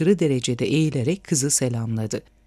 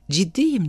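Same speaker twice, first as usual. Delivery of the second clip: "Ciddiyim" pitched higher, with firm weight; emphatic; 4 semitones higher than usual. A narrator's reading. Boy insisting to the girl he will call, "Ciddiyim" said emphatically. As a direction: press on "Ciddiyim" to show you mean it. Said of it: "dedi oğlan üstüne basa basa".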